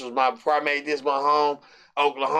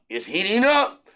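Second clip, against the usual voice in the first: higher, rising game-announcer call; video game announcer; 6 semitones higher, 3 dB louder than usual. Retold or imitated. Quoting a basketball video game, excited rising announcer voice. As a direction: call it like an arcade sports announcer. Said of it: "What's that game?".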